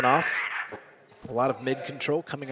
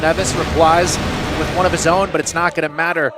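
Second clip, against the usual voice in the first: esports caster; 3 semitones higher, 6 dB louder than usual. Real, not acted. Calling a double kill live.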